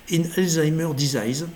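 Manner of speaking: English title read with a strong French accent; bad French-accented English. Real, not acted. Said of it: "mon accent anglais qui est extrêmement mauvais".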